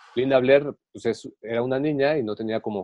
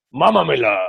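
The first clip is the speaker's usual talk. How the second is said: demonic whisper; 4 semitones higher, 5 dB louder than usual. Retold or imitated. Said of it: "con voz diabólica".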